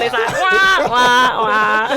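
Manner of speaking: loud, falling mock wah-wah-wah; mock fail sound. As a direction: laughingly imitate a flop noise. Imitates a sad fail sound.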